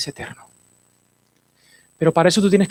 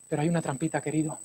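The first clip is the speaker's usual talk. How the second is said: confiding hush; 11 dB quieter, much faster than usual. Acted. Baja la voz de golpe.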